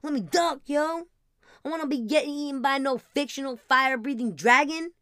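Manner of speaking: ducking from a dragon in mock fright; mock panic. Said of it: "I would be like".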